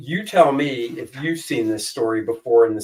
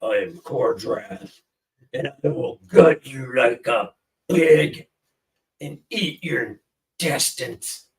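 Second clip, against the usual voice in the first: put-on Cordrath accent; slower than usual. Asked for Cordrath's accent, a slow menacing brute. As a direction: menace them slowly as a brute. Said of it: "Cordrath would be".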